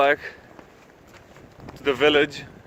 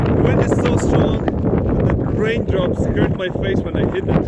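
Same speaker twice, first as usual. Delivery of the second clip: shouting over wind; 5 semitones higher than usual. Real, not acted. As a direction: yell it over the storm. Wind roaring on a mountain.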